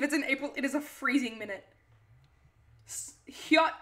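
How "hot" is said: "Hyot" with a y glide after the H; "Hyot", mimicking an odd way of saying hot; odd pronunciation. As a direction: say "Hyot" with an exaggerated y sound slipped in. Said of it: "why do you say it like that".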